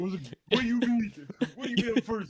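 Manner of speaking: high, loud stunned repeat; panicked why me; shocked disbelief. Retold or imitated. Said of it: "I was like".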